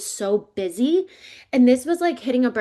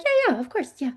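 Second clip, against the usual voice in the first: brushed-off mom; 7 semitones higher than usual. Retold or imitated. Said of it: "She'd be like".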